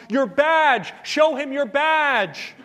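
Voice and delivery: high, loud comic yell; acted scream. Farmer yelling over the fence to agent chased by bull, acted scream. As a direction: shout the punchline as a mock-frantic warning. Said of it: "screamed at the top of his lungs".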